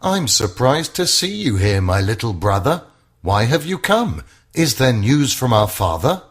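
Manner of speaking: a big brother caught off guard; a hint of a surprised older brother. Brother greets David in camp.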